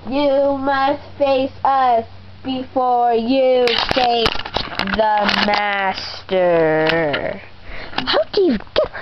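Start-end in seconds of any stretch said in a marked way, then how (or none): 0.1-7.4 slow menacing villain voice; slow theatrical villain menace. Acted. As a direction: drawl it out like a storybook villain. Villain taunting heroes.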